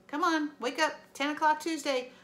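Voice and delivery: upbeat. Real, not acted. Teacher urges students.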